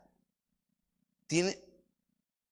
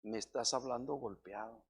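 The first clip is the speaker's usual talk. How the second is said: turning it back on her; 7 semitones lower, 13 dB quieter than usual. Retold or imitated. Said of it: "le revierto su dicho".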